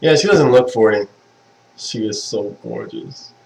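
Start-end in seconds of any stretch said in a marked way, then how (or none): 1.8-3.3 breathy awe. Real, not acted. Gushing over his fiancée.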